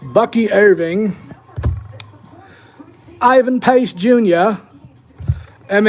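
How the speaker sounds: put-on slow, half-hearted British accent reading names; a so-so British accent, drawn out. Calling out card names to viewers in a British accent. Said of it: "I can't do the British accent all night".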